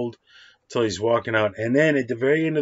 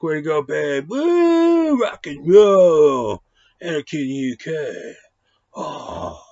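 whooping, higher cheer that drags out; mock crowd cheer; 6 semitones higher, 6 dB louder, much slower than usual. Fans celebrating a home run, hammed-up whooping cheer. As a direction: cheer like a fan in the stands. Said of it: "you're like".

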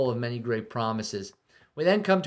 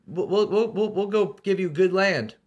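much higher, louder sweet-talking envoy; coaxing salesman voice; 8 semitones higher, 5 dB louder than usual. Retold or imitated. Assyrian envoy luring Jerusalem out, higher and honeyed. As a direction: lure them out with a false smile. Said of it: "he promises good things".

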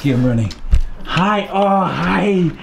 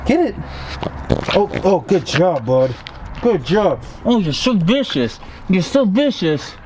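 talking to a dog; 3 semitones higher than usual. Real, not acted. Cooing at the playing puppies.

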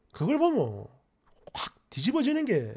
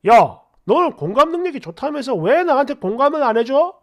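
mildly angry acted complaint; a touch of mock outrage; angry quote; 8 semitones higher, 10 dB louder than usual. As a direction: imitate an annoyed accuser. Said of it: "이러면서 화를 내".

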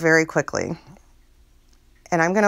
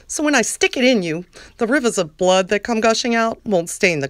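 Lauren voice. Acted. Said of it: "my very best Lauren voice".

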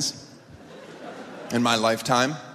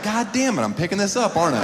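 high mock groan of realizing; whiny put-upon voice catching on; exasperated friend; 5 semitones higher than usual. Friend hit by cash, mock-annoyed groan. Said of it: "And you'd be like".

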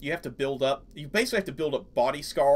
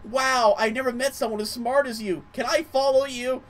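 high, loud, starry-eyed gush; excited Beep; 10 semitones higher, 5 dB louder than usual. Retold or imitated. Beep amazed by the player's smarts, high excited gush. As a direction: gush with wide-eyed admiration. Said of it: "when he's like".

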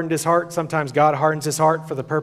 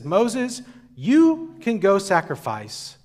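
Pharaoh conceding; 4 semitones higher, slower than usual. Retold or imitated. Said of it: "He says".

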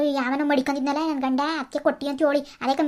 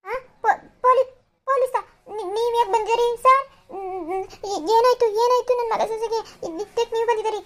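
mock panic; 6 semitones higher, 4 dB louder than usual. Mother panics at police.

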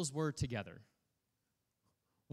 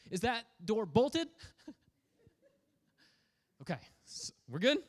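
laughing nervous check; 6 semitones higher than usual. Acted. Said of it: "if I'm one of the disciples".

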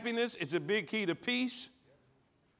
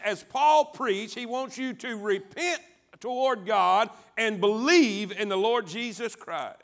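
raised pitch, insistent preacher's cadence; emphatic preaching; 4 semitones higher, 4 dB louder than usual. Real, not acted. Preacher tells congregation what God wants, emphatic preaching. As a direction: build through the repeated phrases, stretching the climax.

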